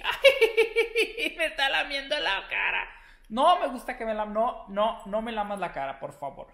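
loud, high, laughing squeals; laughing protest. Real, not acted. Being licked on the face by the dog, loud laughing protest.

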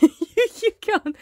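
high, coaxing pet voice; talking to a pet. Real, not acted. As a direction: coax the dog sweetly. Talking to her dog Beanie.

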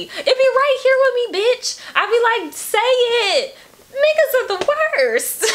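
excited outburst. Real, not acted. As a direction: shout it along with the song. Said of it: "excited agreement with lyrics".

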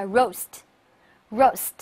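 roast, roast drawn out slowly and clearly; slow model reading. Shown as a demonstration. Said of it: "来读一下". (慢速示范朗读roast)

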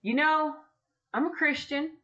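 a lightly acted, exasperated prayer; complaining to God. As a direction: mom venting her frustration to God. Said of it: "I'm just like".

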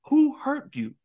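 high, loud, frantic repeated questioning; mock-frantic hero demanding answers; frantic Luffy. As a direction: demand it over and over, rising in panic. Luffy voiced, frantic retelling.

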